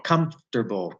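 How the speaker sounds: "Comfortable" low and split, "cumf ... terbul"; reduced COMFORTABLE. Shown as a demonstration. Teacher showing the lost vowel, reduced form. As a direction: run m, f, t together in "Comfortable". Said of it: "Once you lose the vowel".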